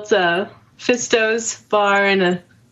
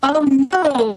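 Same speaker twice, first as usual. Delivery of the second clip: wobbly warbling call audio; 5 semitones higher than usual. Real, not acted. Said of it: "you're glitching out".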